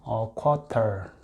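"a quarter" drawn out very slowly and softly; "a quarter" said very slowly to repeat; slow model pronunciation. Shown as a demonstration. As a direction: stretch "a quarter" for learners. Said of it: "이렇게 얘기를 합니다".

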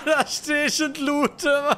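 high, slow laugh through the words. Real, not acted. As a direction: laugh at your own bad luck. Laughs at own death.

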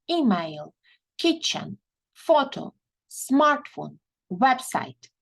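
"Email", "kitchen", "photo", "smartphone", "website" with the first syllable stressed; teacher reads out the first-column words. Shown as a demonstration. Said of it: "we stress the first syllable". (наголос на перший склад)

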